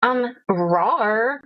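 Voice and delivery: put-on bored valley girl roar; a ditzy "um, rawr" like a Valley Girl tiger. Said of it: "Valley Girl Tiger".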